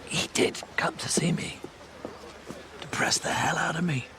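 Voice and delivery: whispering with a damaged voice; strained, breathless whisper; hoarse whisper. Real, not acted. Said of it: "Rest that voice".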